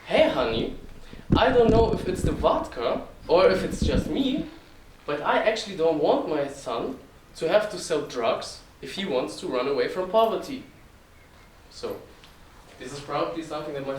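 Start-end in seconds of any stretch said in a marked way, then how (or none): 0.1-10.6 put-on louder, Russian-accented dad voice, pitched up at first; father's heavy Russian accent. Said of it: "imagine it with a very heavy Russian accent".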